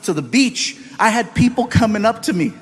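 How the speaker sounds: normal talking voice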